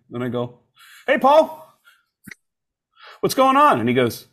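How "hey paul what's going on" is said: high-pitched, over-eager phone greeting; forced cheerfulness. Retold or imitated. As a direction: greet him far too brightly, imitating nerves. Nervous caller faking a cheery greeting.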